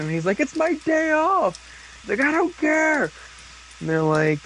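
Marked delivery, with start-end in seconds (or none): 0.4-1.6 much higher, slow put-on bird voice; squeaky sidekick voice. Recapping the episode, the bird refusing in a high squeak. 2.2-3.1 much higher, slow put-on bird voice; squeaky sidekick voice. Recapping the episode, the bird refusing in a high squeak.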